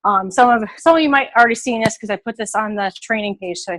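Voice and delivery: breathless from carrying heavy bags; out of breath. Real, not acted. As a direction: talk while catching your breath. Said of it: "I'm, like, out of breath".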